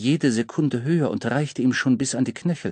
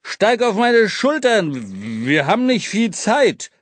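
urgent; 8 semitones higher, 4 dB louder, slower than usual. Acted. Urgent rescue.

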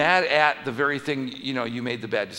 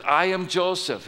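higher and a touch louder declaration; Joseph revealing himself; 6 semitones higher, 4 dB louder than usual. Acted. Joseph revealing himself to his brothers, higher and emphatic. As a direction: announce who you are with feeling. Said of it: "what are his first words?".

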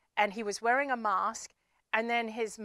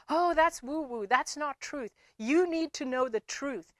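higher, mocking know-it-all voice; dismissive tone; 4 semitones higher than usual. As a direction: brush it off as nonsense. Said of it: "when they say it in that tone".

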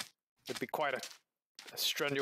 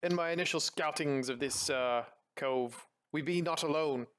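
lightly voiced pirate recounting a scouting trip; a hint of old sea-dog in the telling; pirate captain. Pirate reporting plunder to a crewmate, lightly voiced pirate.

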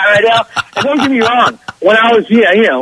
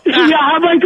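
laughing through the words; 6 semitones higher, slower than usual. Real, not acted. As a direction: break into a laugh as you speak. Laughing while telling.

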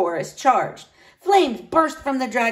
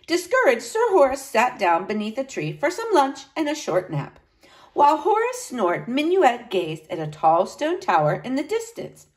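lively storybook reading; story narration; 5 semitones higher than usual. A narrator's reading. Teacher reading a knight's tale to children, animated narration. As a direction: read it expressively for children.

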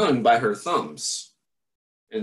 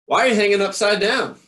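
quick puzzled question; 7 semitones higher, 5 dB louder, faster than usual. Acted. Bat questions Stellaluna.

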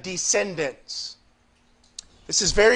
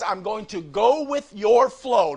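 slower, leaning on "your" in "your flow"; slow and weighted on "your flow"; stress on your. Shown as a demonstration. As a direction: hit "your", not "the". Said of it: "Not the flow, but I'll go with your flow".

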